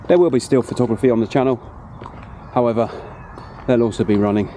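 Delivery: slightly winded mid-run; out of breath. Real, not acted. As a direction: talk between breaths after running. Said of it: "excuse the, uh, out of breathness".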